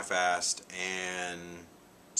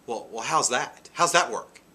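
high, louder indignant mimic, rising toward the end; mock defensive girl; 3 semitones higher, 7 dB louder than usual. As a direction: mimic her getting defensive. Quoting her defensive reply.

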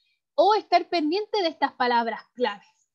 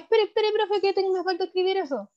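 pleading student; 6 semitones higher than usual. Retold or imitated. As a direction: plead like a student falling behind. Student interrupting the professor.

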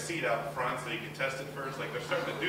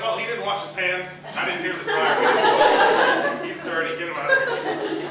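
mock disgusted customer; 8 dB louder, slower than usual. Guy in beer cave complaining.

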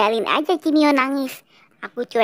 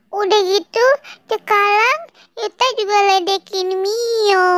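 tattle to papa in a whimpering voice; whiny complaining girl; 6 semitones higher than usual. Acted. Little girl complains to papa about her brother, whining.

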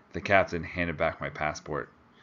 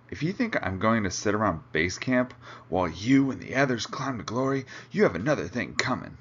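mild shout, raised pitch; indignant shouting; 4 semitones higher than usual. Acted. Angry client protesting to his expedition leader, indignant shouting. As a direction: protest hotly, short of a full yell. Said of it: "the man shouted".

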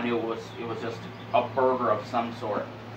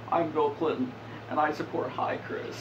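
lightly voiced Bill Clinton; Bill Clinton impression; 4 dB quieter than usual. Gamer does a mock Bill Clinton channel endorsement, lightly voiced. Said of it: "doing a fucking Bill Clinton impression".

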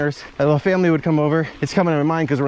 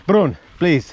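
Uncle Enrico; 3 semitones higher, 3 dB louder than usual. Retold or imitated. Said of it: "You'd hear Uncle Enrico go".

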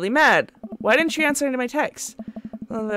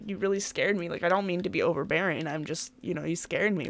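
soft honest confession; 5 semitones lower, 6 dB quieter than usual. Shown as a demonstration. Dad honestly tells his daughter she scared him, softer and lower. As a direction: lower and softer, gently owning the fear. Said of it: "'Cause if you're just honest".

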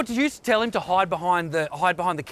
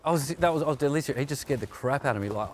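sheepish apology; 4 semitones lower than usual. Real, not acted. Apologising after snapping.

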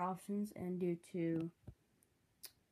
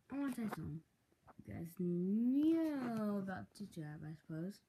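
weird voice. Real, not acted. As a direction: stretch it out strangely. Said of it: "That sounded weird".

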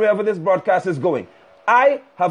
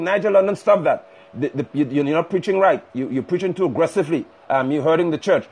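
lightly voiced hesitant objectors, pitched lower; mock critics; 6 semitones lower than usual. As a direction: mimic faltering complainers in a lower voice. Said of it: "carnal vipers are saying".

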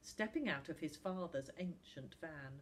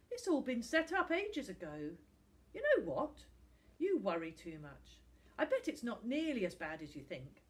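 easy-going Tom, placating; 4 semitones higher, 5 dB louder than usual. Acted.

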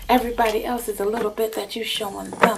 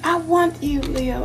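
passionate; 6 semitones higher, 4 dB louder than usual. Acted. Jealous lover pleading.

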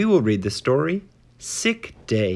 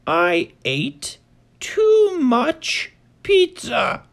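high, small bird voice climbing higher; 13 semitones higher than usual. Acted. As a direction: push it up into a tiny bird squeak. Bird confesses overeating.

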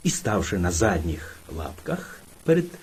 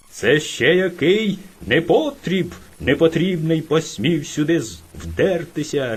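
bear roaring. Acted. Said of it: "ревів він".

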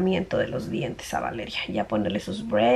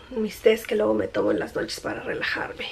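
whispering; 6 dB quieter than usual. Real, not acted. Bedtime tea aside.

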